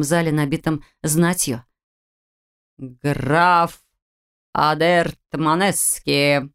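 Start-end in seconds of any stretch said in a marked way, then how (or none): 2.8-6.5 drawn-out barked herald call; town crier. A narrator's reading. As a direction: bark the title across the hall. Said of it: "который раз рявкнул Герольд".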